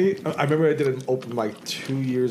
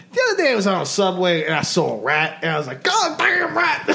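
imitating rat comic; 4 semitones higher than usual.

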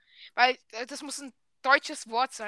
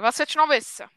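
Swiss German question; 3 semitones higher, 7 dB louder, faster than usual. Shown as a demonstration.

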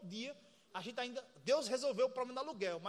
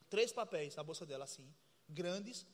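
slow, low, dramatic; 6 semitones lower, 5 dB quieter than usual. Shown as a demonstration. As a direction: drop the voice low and drag it out slowly. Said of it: "Veja, imagine". (devagar, grave e dramático)

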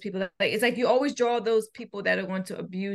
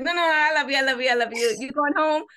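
put-on little boy; 4 semitones higher, 6 dB louder, faster than usual. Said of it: "And he's like".

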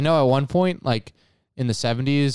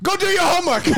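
very high-pitched mock Asian accent. Shown as a demonstration. Friend doing an accent for laughs, in a high mock Asian accent. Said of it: "I'll do an Asian one".

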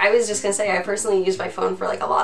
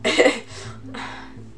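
stifled giggles; 3 semitones higher, 5 dB quieter than usual. Real, not acted. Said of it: "trying not to laugh".

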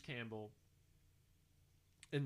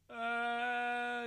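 sneezing; 10 semitones higher, 6 dB louder than usual. Real, not acted. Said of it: "it's on the tip of my nose".

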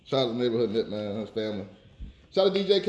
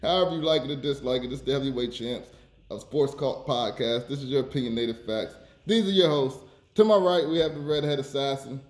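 podcast hype intro. Acted. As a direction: hype up the hosts like a ring announcer.

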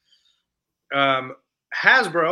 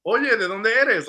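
high, louder, slow Spanish greeting; Spanish-speaking character; 7 semitones higher, 5 dB louder than usual. Retold or imitated. Anthony Ramos' character quizzing the robot, high and eager. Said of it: "Anthony Ramos' character, he's like".

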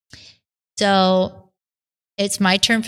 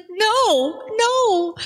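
high, rising frantic refusal; panicked no; 13 semitones higher than usual. Retold or imitated. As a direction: push it away, voice climbing in panic. Freaking out at the call.

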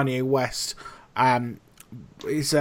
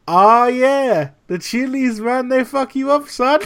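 high-pitched imitated Colombian accent; 9 semitones higher, 5 dB louder than usual. Head chef to chilli-burnt cook, imitated Colombian accent. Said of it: "this homage to his accent".

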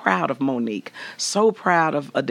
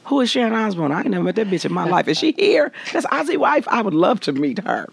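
mock innocence; 6 semitones higher than usual. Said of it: "I said".

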